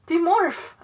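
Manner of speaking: loud desperate scream. A narrator's reading. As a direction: scream the command to yourself. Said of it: "I screamed again".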